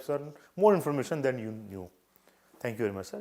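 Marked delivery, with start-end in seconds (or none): 2.6-3.2 softly grateful, deferential thanks; a touch of polite gratitude. Shown as a demonstration. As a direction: thank the interviewer humbly. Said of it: "He have very polite".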